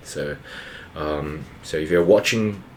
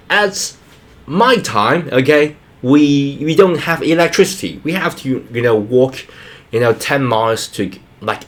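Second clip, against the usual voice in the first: lightly acted parent's hardship tale, pitched up at first; lecturing parent; 3 semitones higher, 3 dB louder than usual. Parent telling kids of greater hardship, lightly lecturing. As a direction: imitate a parent insisting on how hard it was. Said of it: "typical Asian thing to do".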